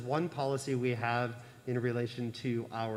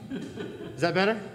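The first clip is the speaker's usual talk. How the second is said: loud, higher, slow coach call; barking gym coach; 5 semitones higher, 3 dB louder, slower than usual. Real, not acted. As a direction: boom it to the back row like a coach. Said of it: "Use my coach voice".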